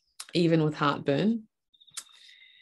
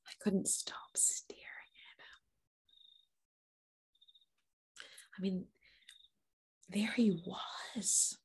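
whispered, slow wonder; hushed awe; 11 dB quieter than usual. Acted. Mother recalling staring at her newborn, in hushed awe. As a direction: barely voice it, lingering in awe.

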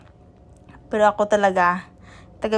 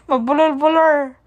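mock stammer; 6 semitones higher, 6 dB louder than usual. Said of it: "kasi bulol-bulol ka".

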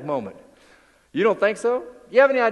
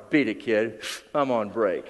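grumpy Goofy; 10 semitones lower, 5 dB quieter, slower than usual. Retold or imitated. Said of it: "Goofy looks down at his watch".

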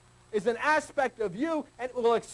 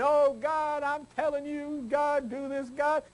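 higher, whining mock prayer; mock pleading prayer; 6 semitones higher, slower than usual. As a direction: imitate a needy churchgoer begging God. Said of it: "Mary Gengard down there saying".

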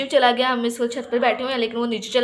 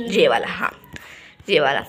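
low unvoiced whisper; hushed pointing-out whisper; 9 semitones lower than usual. Real, not acted. Pointing out the kid's piece.

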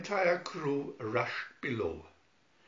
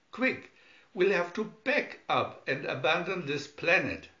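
urgent; 4 semitones higher, 4 dB louder than usual. Acted. Urgent command to escape.

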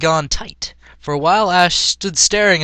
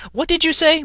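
yelling back; 13 semitones higher than usual. A narrator's reading. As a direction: shout it back, much higher. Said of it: "Misty yelled back at him".

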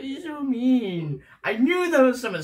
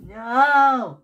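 firm refusal; 3 semitones higher, 6 dB louder than usual. Real, not acted. Child refuses the kiss again.

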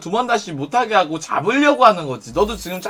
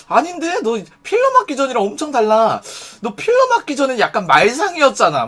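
higher-pitched contradicting jab; teasing attack; 5 semitones higher than usual. Acted. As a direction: push back with a raised, needling lilt. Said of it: "뭐 이런 식으로 공격해".

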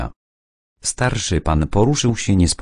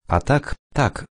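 sudden higher lift of delight; mild happy agreement, voiced a bit higher but softer; pleased; 7 semitones higher, 3 dB quieter than usual. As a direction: brighten up, caught off guard. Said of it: "ucieszył się kobiatko".

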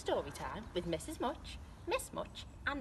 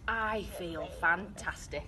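slow relieved declaration; 4 semitones lower, slower than usual. Acted. Alan relieved at last.

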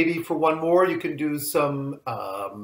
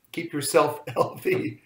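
"yourself" stressed with a laugh, rising. Shown as a demonstration.

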